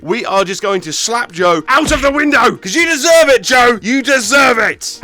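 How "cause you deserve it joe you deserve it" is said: mock taunting. Slapping Joe out window.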